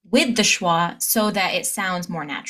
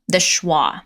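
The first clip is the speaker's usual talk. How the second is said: whispered; 4 semitones lower than usual. Shown as a demonstration. Teacher demoing the schwa.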